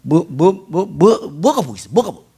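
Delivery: grumbling in Jeolla dialect; a light Jeolla dialect scoff. Retold or imitated. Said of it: "전라도 사투리로 잘 쓰는 말이에요".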